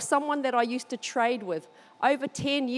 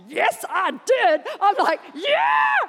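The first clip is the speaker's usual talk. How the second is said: much higher, shouted yeah; excited; 8 semitones higher, 5 dB louder, slower than usual. Retold or imitated. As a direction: burst out with joy. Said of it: "Did I get excited?".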